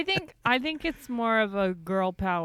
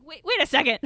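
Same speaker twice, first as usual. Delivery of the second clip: mock sudden realization; 7 semitones higher, 4 dB louder, faster than usual. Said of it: "It's like".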